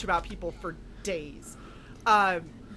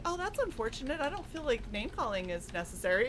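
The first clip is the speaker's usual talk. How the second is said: mock-sweet calm; 2 semitones higher, 6 dB quieter than usual. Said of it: "And you're like".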